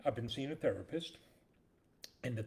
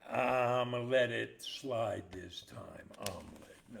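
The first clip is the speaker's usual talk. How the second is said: officer voice; 4 dB louder, slower than usual. Acted. Punchline in a put-on officer voice.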